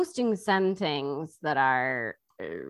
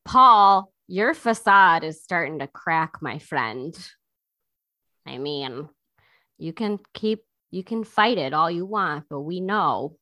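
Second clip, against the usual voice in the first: teasing; 5 dB louder than usual. Retold or imitated. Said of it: "but he's like".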